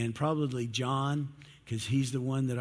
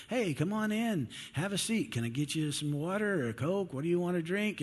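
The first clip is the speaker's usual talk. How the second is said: higher, bright hospitable greeting; welcoming host; 5 semitones higher than usual. Pretend. Host welcomes a visitor into the house, cheerfully. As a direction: open the door wide for a guest.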